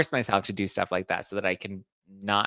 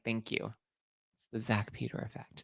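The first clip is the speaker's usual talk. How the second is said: mock modest thanks; 10 dB quieter than usual. Mock humble thanks, soft.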